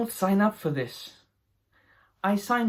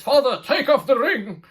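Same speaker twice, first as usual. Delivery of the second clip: laughing through the line; 7 semitones higher, 4 dB louder than usual. Retold or imitated. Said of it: "He says".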